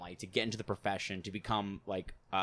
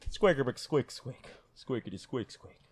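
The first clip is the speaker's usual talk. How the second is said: squeaky toy voice; 3 semitones higher than usual. Shown as a demonstration. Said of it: "the squeaker, like, the squeal thing".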